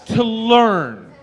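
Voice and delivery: high laughing repeat of the punchline. Acted. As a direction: echo the line through a laugh.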